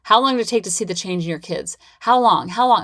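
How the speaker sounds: mock impatient client pressing how long; a lightly voiced impatient client; eager questioning clients. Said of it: "they're like".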